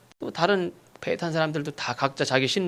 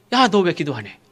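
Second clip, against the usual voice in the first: mild acted scolding; lightly voiced reproach; rebuking; 3 semitones higher, 3 dB louder than usual. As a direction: take someone to task, briefly. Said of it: "이렇게 책망을 받아요".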